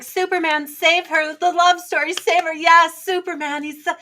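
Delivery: high, excited romantic cheering; gushing fangirl. Acted. Woman rooting for Superman's love story, gushing. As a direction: cheer on the hero in a high, swoony gush. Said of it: "as a woman, I'm like".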